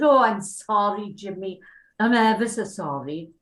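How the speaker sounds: apologetic, strong Welsh lilt, leaning loudly into it; imitated nervous Welsh accent; thick Welsh accent. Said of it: "my accent was very, very, quite sort of thick".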